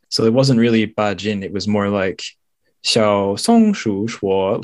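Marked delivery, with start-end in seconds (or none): 2.8-4.6 stretched out syllable by syllable; slow storybook drawl. Retold or imitated. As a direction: draw out the title slowly. Mimics kids' storybook title.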